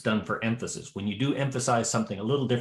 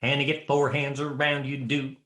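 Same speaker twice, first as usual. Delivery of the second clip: rhythmic filler chanted on the beat; patter; 3 semitones higher than usual. Shown as a demonstration. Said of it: "That was the patter".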